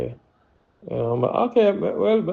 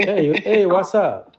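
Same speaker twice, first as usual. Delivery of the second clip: high, loud Black American greeting; Black American accent; 5 semitones higher, 5 dB louder, much slower than usual. Shown as a demonstration. Showing off an American accent for a caller, playful Black American greeting. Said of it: "my black American accent".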